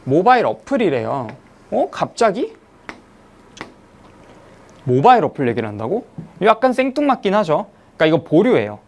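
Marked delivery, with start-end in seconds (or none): 1.7-6.1 lightly acted surprised double take; puzzled reader's rising questions; mock puzzlement. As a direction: question it as if caught off guard. Acts a reader puzzled by sudden topic.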